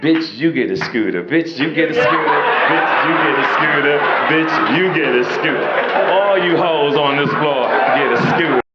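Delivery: chanted handing out scooters; hammed-up giveaway. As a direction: boom it out like a game show host. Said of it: "I'm like".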